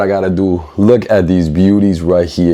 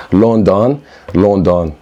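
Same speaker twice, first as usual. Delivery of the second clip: practising British London; slower than usual. Shown as a demonstration. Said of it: "let me fix this up".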